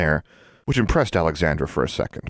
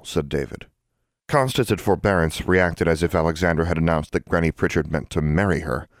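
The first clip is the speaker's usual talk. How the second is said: ordinary delivery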